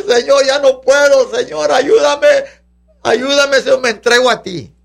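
ruego algo agudo y sostenido; súplica a Dios. Acted. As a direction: clama ayuda con entrega, sin gritar. Suplica actuada a Dios. (súplica moderada)

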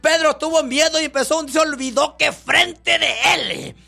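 full-force pulpit preaching; fiery preaching. Acted. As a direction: drive the story home to the congregation.

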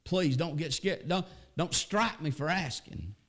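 a hint of begging, high; preacher acting a fearful prayer to God; humble pleading prayer. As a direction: plead like a frightened child. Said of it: "prayed like that".

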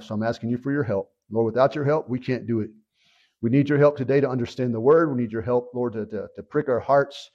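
low, earnest prayer voice; sincere spoken prayer, slightly subdued; praying aloud. Real, not acted. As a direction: lead the congregation in prayer. Leads congregation in prayer.

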